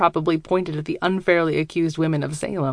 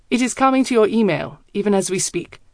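put-on German accent; 3 semitones higher than usual. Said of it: "I can hear the smile in his voice".

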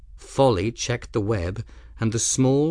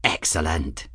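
pleased; 5 semitones lower, 3 dB quieter than usual. Acted. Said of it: "his tone pleased".

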